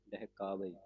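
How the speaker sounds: ਡਹਿਕਾਵੇ joined together as one word; ਡਹਿਕਾਵੇ ਇਕੱਠਾ ਉਚਾਰਨ. Shown as a demonstration. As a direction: run ਡਹਿਕਾਵੇ together without a break. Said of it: "ਡਹਿਕਾਵੇ ਪਾਠ ਇਕੱਠਾ ਹੀ ਉਚਾਰਨ ਕਰਨਾ".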